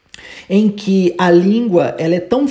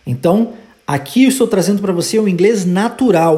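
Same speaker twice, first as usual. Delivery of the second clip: usual speaking voice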